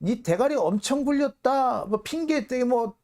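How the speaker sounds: imitating a boss swearing at a partner; mock menacing abuse. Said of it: "아주 험악하게 얘기합니다".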